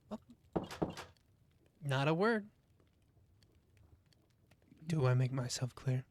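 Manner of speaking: cold, firm threat; menacing warning. Acted. Threatening the captive.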